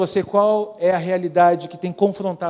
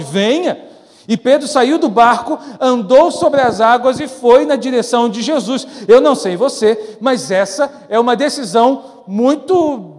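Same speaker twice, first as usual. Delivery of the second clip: louder, higher preacher's drive; energetic preaching; 6 semitones higher, 9 dB louder than usual. Acted. Preacher urges the church to leave their comfort zone, fervent. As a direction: press the point with rising fervor.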